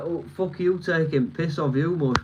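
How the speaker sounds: lightly put-on Yorkshire accent; mock Yorkshire grumble. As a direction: imitate an offended Yorkshire local. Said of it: "they'll be like".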